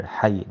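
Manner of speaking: "Hayy" with a breathy throat ḥa. Shown as a demonstration. Teacher shows the throat ḥa. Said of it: "with the throat letter".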